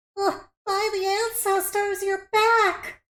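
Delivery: extremely high, squeaky pitch. Voicing a character greeting the returning party: high-pitched Laylee voice. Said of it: "my voice gets really high when I do".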